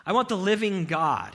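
high, loud plea for God; a pleading shout of longing; loud longing cry. Acted. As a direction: call out hungrily for God. Voicing the psalmist's longing.

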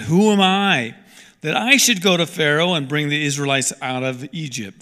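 mildly hammed-up "why me" objection; reluctant Moses. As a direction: question God's choice with insistence. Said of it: "Moses said to God".

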